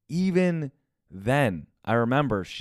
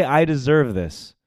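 voice going high; 4 dB louder, slower than usual. Pretend. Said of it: "why is my voice going high".

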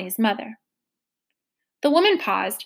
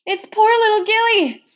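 1 grunt; 10 semitones higher, 5 dB louder than usual. A narrator's reading. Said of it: "Trotter grunted".

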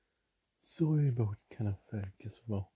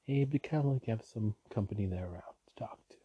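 calm; faster than usual. Shown as a demonstration. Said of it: "saying, like, soothing".

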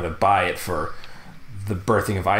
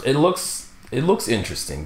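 unenthusiastic; 3 semitones higher than usual. Real, not acted. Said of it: "That was the least enthusiastic".

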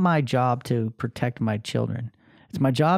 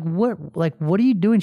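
raised, baffled questioning; re-enacted parental bafflement; incredulous dad; 5 semitones higher, 3 dB louder than usual. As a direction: demand an explanation in disbelief. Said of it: "I'm like".

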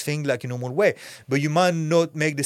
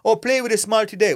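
higher, louder mock director instruction; 7 semitones higher, 3 dB louder than usual. Actor mocking a director's note, higher and louder. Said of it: "however you want me to play".

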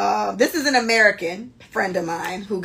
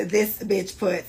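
normal talking voice

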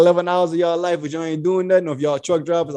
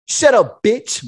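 pimp voice; 3 semitones higher, much slower than usual. Retold or imitated. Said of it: "in the book, he was saying".

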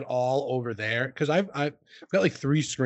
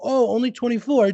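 high, louder "oh" falling away; retold letdown reaction; 7 semitones higher, 3 dB louder than usual. Streamer re-enacting his reaction to a small donation, retold letdown. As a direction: re-enact the underwhelmed surprise. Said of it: "So I was gonna go".

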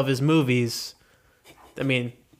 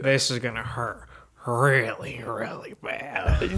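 slow drawn-out creepy line; Joker impression; 4 semitones lower, 4 dB quieter, slower than usual. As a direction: stretch it out, slow and eerie. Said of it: "Gary, you go".

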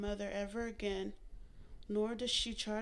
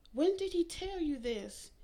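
higher, louder, demanding; angry demand; 8 semitones higher, 6 dB louder than usual. A narrator's reading. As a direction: press her hard. Mary confronting mother.

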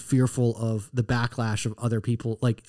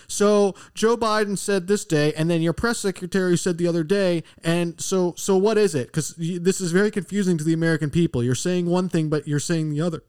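lightly imitated reporter question, pitched up; a touch of press-room challenge, higher than usual; lightly voiced reporter; 4 semitones higher than usual. Reporter putting a confusing contradiction to the president, lightly voiced. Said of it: "I hope he asks, like".

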